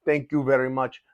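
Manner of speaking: a lightly voiced quiet Canadian accent; mildly imitating a soft-spoken Canadian; Canadian accent impression. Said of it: "he's got that very quiet, you know, Canadian".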